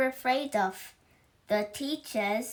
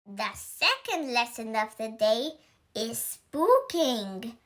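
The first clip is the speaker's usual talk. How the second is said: announced. Acted. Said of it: "announced Miss Bell".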